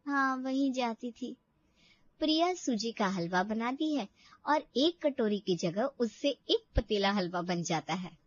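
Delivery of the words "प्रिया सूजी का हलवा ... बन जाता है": story narration. A narrator's reading. Narrator telling the audience about Priya, calm story voice. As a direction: tell the story evenly to the listener.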